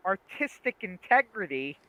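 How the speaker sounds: imitating an angry outburst; retold yelling. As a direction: throw it back as a half-yelled retort. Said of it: "like, yelling at him".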